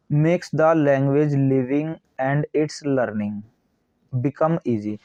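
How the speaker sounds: slow, word-by-word dictation reading; steady, spaced reading of a textbook line. Acted. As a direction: read it out like dictation to a class. Reads the English text slowly.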